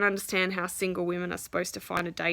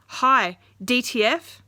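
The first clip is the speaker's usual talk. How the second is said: louder, sleazy mock-flirt; sleazy pickup line; 3 semitones higher, 5 dB louder, slower than usual. She mocks a crude dating-app opener, loud and sleazy. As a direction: ham up a crude guy's opener. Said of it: "I don't know why I said that like that".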